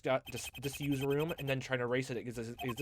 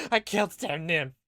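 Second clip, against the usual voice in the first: slow loud final cry; 6 semitones higher, 10 dB louder, slower than usual. Acted. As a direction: land the last one slow and heavy.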